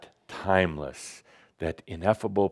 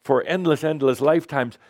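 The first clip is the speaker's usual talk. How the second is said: high, frantic, scolding voice; hammed-up hysteria, pitched way up; panicking mind; 10 semitones higher than usual. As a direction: nag in alarm as the frightened mind. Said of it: "I'm playing the part of the mind".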